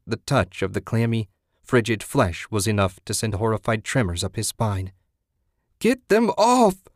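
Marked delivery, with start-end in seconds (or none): 5.8-6.9 high, loud, drawn-out wail. A narrator's reading. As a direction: wail in panic for help. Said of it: "Susan wailed".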